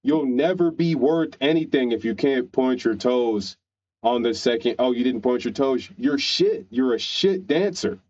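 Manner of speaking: scolding coach, pitch climbing as the tirade goes on; mock screaming coach. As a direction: berate a child dancer, mock-angry, without real shouting. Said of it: "She's screaming at them".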